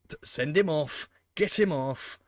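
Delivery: real frustrated yell at the screen; exasperated shout. Real, not acted. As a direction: bark at the ref to send him off. Yelling at referee in game.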